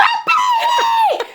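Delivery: put-on high, slow shriek of my baby; mock scream. Kid seeing baby doll fly, high slow shriek. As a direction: wail it like a terrified kid. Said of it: "Screaming bloody murder".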